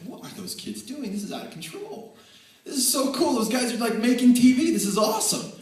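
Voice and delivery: high, loud, rushing with excitement; excited kid. Retold or imitated. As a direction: gush like a kid who found something cool. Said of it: "I was like".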